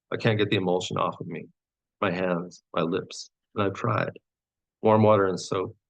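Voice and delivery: narrative poem in a measured cadence; poem reading. Acted. Poet tells of buttery hands and lost love, measured recital. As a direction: recite the mishap line by line, understated even when cursing. Reads poem Greasy Fingers.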